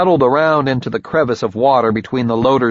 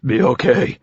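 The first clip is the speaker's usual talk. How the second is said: clenched jaw; 2 semitones higher than usual. Acted. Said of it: "through my own clamped jaws".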